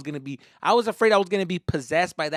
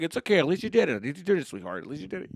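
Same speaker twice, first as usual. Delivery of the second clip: consoling parent; 3 semitones higher, faster than usual. Acted. Parent to crying kid after ride, acted consoling. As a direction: soothe a crying child.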